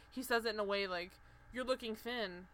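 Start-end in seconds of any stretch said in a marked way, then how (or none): 1.5-2.5 rude remark. Retold or imitated. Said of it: "Like, very rude like that".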